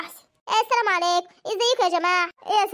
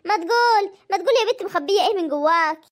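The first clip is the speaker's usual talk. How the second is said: insistent. Acted. Aunt pressing the girl to tell, insistent. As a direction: push her to spill it.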